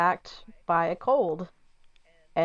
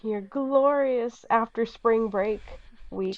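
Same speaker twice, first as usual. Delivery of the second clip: whisper; 4 semitones higher, much slower than usual. Pretend. Teasing whisper about boring week.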